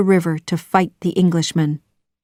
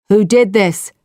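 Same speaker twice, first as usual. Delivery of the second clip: cry out; 3 semitones higher, 4 dB louder than usual. A narrator's reading. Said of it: "cried Chief Powhatan".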